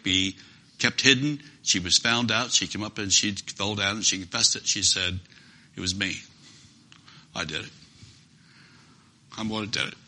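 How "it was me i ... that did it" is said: soft, low, ashamed admission; hushed confession. Acted. Trembling woman confessing to Jesus, soft and low. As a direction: confess it quietly, head bowed.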